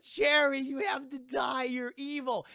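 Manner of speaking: high-pitched accusing character voice; hammed-up frantic accusation; Francesca. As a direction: cry it out high and dramatic. Voices Francesca confronting Cherry.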